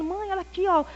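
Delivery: cheerful pitch. Retold or imitated. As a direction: chirp the bargains happily. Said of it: "aí eu toda alegre contando".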